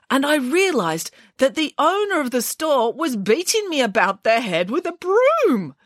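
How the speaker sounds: Boris's high, sorrowful bear voice; tearful bear. Acted. Boris tells Nanny Piggins about the honey emporium. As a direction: tell it as a sad, dreamy bear.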